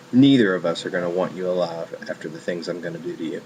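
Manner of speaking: understated imitation of a creepy killer; creepy menace. Killer turns to the woman in his car, mildly creepy. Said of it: "is so fucking creepy".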